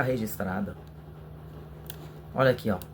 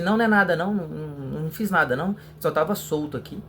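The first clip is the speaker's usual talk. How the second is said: high, quick denying voice; dishonest mechanic; 4 semitones higher, faster than usual. Retold or imitated. Mechanic lying to a customer about a repair, mock denial. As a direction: brush it off like a shifty mechanic. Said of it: "o cara vai falar assim".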